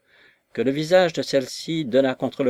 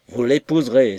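stern command; 5 dB louder than usual. Acted. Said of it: "s'écria monsieur Weston".

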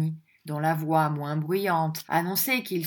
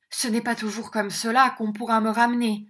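bad-tempered; 4 semitones higher, 3 dB louder than usual. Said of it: "d'un air de mauvaise humeur".

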